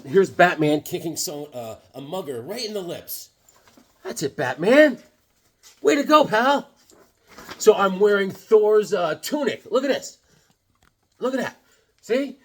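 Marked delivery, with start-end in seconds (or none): 5.8-6.7 much higher, louder cheer. Acted. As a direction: praise Batman. Cheering drawn Batman.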